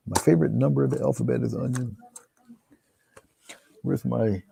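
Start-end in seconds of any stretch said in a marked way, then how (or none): 0.1-1.9 Herschel Walker-ese. Retold or imitated. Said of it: "Herschel Walker-ese".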